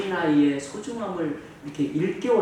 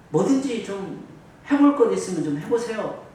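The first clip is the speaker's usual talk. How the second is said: raised-pitch, half-believing appeal; doubtful request; 4 semitones higher than usual. Acted. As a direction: ask as if not sure it will work. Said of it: "이런 어투로 이렇게 했단 말이죠".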